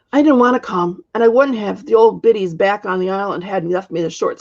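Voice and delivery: an aggrieved crone, lightly voiced; old witch. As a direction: witch complaining about the sea monster. Witch tells of the monster.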